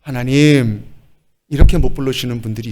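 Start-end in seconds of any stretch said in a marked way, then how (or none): 0.0-0.9 tender call. Shown as a demonstration. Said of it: "다정하게".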